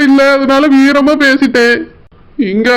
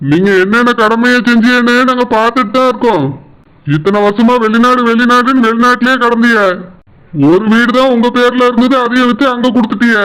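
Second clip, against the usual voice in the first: a lightly voiced stern elder brother-in-law; a hint of a stern older brother; 3 semitones lower than usual. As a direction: scold him as the wife's protective brother. Husband voices his brother-in-law.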